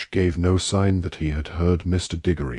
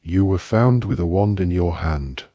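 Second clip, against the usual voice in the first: barked. Acted. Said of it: "barked Mister Diggory".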